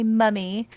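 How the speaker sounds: "mummy" said the British way. Retold or imitated. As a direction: say "mummy" as the British word for mom. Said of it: "how they say mom in British".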